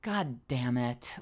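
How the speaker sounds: defeated whisper. Retold or imitated. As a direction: mutter it under your breath, beaten. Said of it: "you're like".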